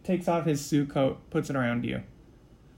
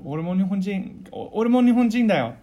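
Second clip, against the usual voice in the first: casual Osaka-dialect Japanese, pitched up; higher, informal Osaka-accented Japanese; 5 semitones higher, 5 dB louder than usual. Acted. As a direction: say it in a not-so-polite Osaka dialect. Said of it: "In kind of a Osaka dialect".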